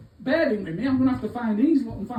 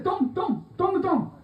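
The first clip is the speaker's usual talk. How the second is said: laughing call; 8 semitones higher than usual. Retold or imitated. Calling out to boss.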